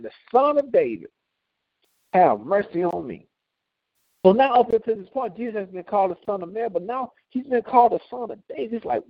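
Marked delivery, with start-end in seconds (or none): 0.0-3.3 louder cry. Acted. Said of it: "I'm gonna cry even louder".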